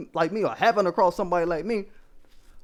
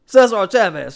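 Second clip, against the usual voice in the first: mocking quote; 8 dB louder than usual. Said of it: "But the fools say".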